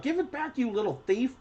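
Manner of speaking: high shrill accusing voice; shrill cry. A narrator's reading. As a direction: cry out high at a little thief. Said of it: "A shrill voice cries out".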